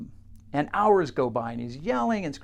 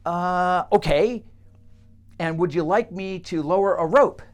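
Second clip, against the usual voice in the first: bemused helper; 3 semitones higher, 5 dB louder than usual. Acted. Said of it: "she goes".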